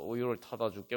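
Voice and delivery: lightly acted comforting promise; mild soothing. Parent offering a baby milk, mildly soothing. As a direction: reassure a hungry baby, understated. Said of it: "달래줍니다".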